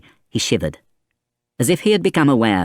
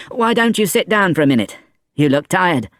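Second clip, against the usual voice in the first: lightly higher woman's voice; friendly invitation; 9 semitones higher than usual. A narrator's reading. Innkeeper's wife inviting Fantine to sit, lightly voiced. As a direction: offer a seat kindly.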